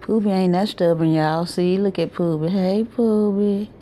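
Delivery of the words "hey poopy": tender slow greeting. Real, not acted. Grandma greets baby Poopy, slow and tender. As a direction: linger lovingly on each word.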